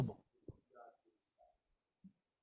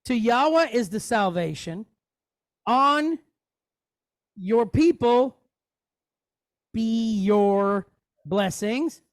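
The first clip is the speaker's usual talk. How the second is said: slow reading; 2 semitones higher, 4 dB louder, slower than usual. Shown as a demonstration. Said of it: "we're say here".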